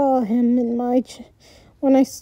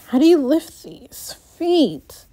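whisper. Real, not acted. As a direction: breathe the words with no voice. Whispered aside while reading.

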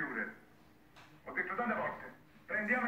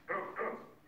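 whispering; 3 dB quieter than usual. Acted. Phone call cut off.

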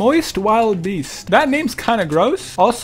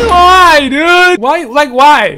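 frustrated cry; 4 semitones higher, 8 dB louder, much slower than usual. Real, not acted. Teammate dies, frustrated.

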